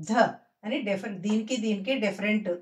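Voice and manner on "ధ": ధ with an audible puff of air, unlike plain "da"; aspirated dha. Shown as a demonstration. Teacher showing how two letters differ, aspirated dha. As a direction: release breath firmly on ధ. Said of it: "తెలిసేలాగా మనం పలకాలి".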